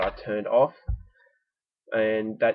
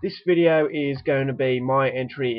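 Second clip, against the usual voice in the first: stuffy nose; 3 semitones higher, 3 dB louder than usual. Real, not acted. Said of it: "I apologise if I sound a bit stuffy".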